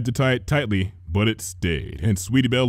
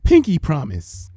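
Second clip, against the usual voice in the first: reassuring; 6 semitones higher, 3 dB louder than usual. A narrator's reading. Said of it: "assured her".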